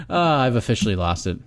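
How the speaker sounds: drowsy, sleepy mumble; half asleep, trailing off; nodding off. Real, not acted. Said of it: "I'm falling asleep".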